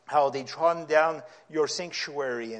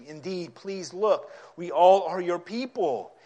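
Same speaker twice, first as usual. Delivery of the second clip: raised, slow pleading cry; prophet's cry for mercy; 3 semitones higher, 4 dB louder, slower than usual. Acted. Preacher voicing Isaiah's prayer to God, a slow pleading cry. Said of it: "He's actually yelling".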